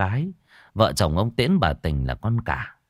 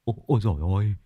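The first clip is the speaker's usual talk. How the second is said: stammering, rising higher and louder in panic; frightened stammer; 8 semitones higher, 4 dB louder than usual. A narrator's reading. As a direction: stutter out the fear for a dying father. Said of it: "miệng run run". (lắp bắp hoảng sợ, giọng càng lúc càng cao)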